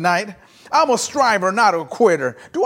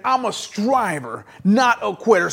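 like you mean it. Shown as a demonstration. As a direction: say it with conviction, drawing out STRIVER. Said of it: "like you mean it".

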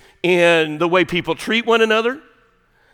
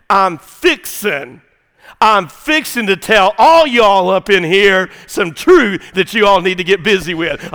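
Southern translation; 5 dB louder than usual. Acted. Preacher giving Jesus' message in Southern, drawled. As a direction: lean into the Southern y'all, emphatically. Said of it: "this is the Southern translation".

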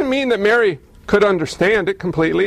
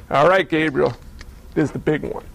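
voice of God; 4 semitones lower, 3 dB quieter than usual. Acted. God speaks to Gabriel.

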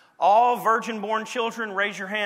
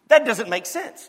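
louder, insisting it doesn't make sense; emphatic; 3 semitones higher, 7 dB louder than usual. Real, not acted. Preacher to the congregation, insisting loudly. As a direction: hit it hard, like a puzzle nobody can solve.

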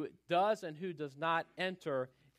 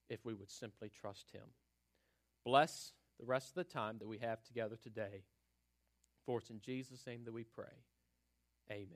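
prayer; 2 semitones lower than usual. Acted. Pastor leads opening prayer.

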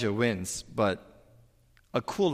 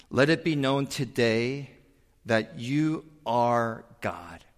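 earnest prayer. Acted. Quotes Elijah's prayer.

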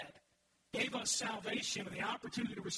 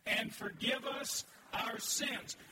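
bolder unison reading; slower than usual. Shown as a demonstration. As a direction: read it again with more conviction. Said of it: "Read it, read it with me".

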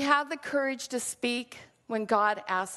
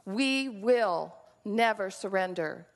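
slow, lightly voiced wartime resolve; a light Churchill nod, slow and firm; hint of Churchill; 2 semitones lower than usual. Churchill to Parliament, a lightly imitated slow defiance. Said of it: "saying to Parliament".

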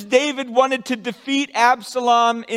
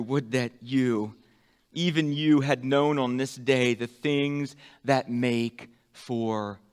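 tender lament; 8 semitones lower, 6 dB quieter than usual. Acted. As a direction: speak it like a heartbroken father. Reading Jesus' lament softly.

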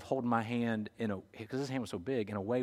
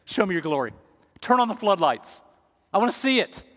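rising high and louder, begging to see glory; pleading cry to God; 8 semitones higher, 6 dB louder than usual. Acted.

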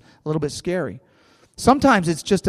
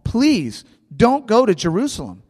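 higher-pitched imitation of begging; pleading; 7 semitones higher, 3 dB louder than usual. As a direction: act out friends imploring him to stay. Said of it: "they're pleading and begging and weeping".

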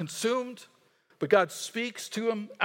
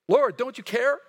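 higher, louder desperate cry; frantic plea; 5 semitones higher, 6 dB louder than usual. Retold or imitated. Disciples wake sleeping Jesus in storm, higher, louder plea. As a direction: shout it over the storm to a sleeping master.

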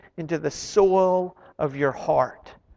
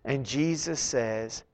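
ordinary talk

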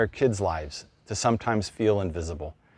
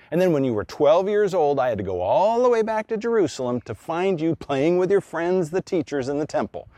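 lightly voiced stern mother, rising in places; a mild mock lecture to her son; a hint of a mother listing her sacrifices; scolding mother. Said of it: "the look is something like this".

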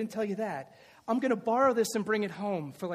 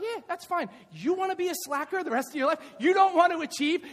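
mock teacher lecture; 7 semitones higher, 3 dB louder than usual. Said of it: "And I'm like".

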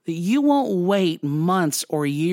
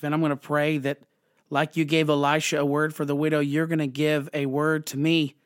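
simple prayer; 3 semitones lower than usual. Shown as a demonstration. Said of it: "pray a really simple prayer that says".

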